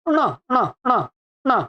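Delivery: "ण" as short retroflex syllables with no vowel before; retroflex nasal demo. Shown as a demonstration. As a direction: flick a curled tongue for each "ण". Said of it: "इसका शुद्ध उच्चारण होता है". ("ण" का मूर्धन्य नासिक्य उच्चारण)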